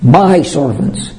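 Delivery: "My" leaned on, slowed down; slow, weight the word "My"; "My" drawn out and stressed before servants. Shown as a demonstration. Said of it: "notice the word my".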